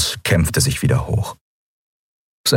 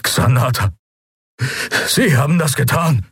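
higher, horrified accusation; accusing; 7 semitones higher than usual. A narrator's reading. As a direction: piece it together aloud. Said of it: "hauchte er".

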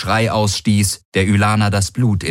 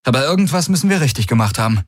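fast, higher, with a forced grin; strained grin; 6 semitones higher, much faster than usual. Acted. Galen answering with a strained grin, fast and higher. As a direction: push it out through a tense grin, quickly. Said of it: "mit angestrengtem Grinsen".

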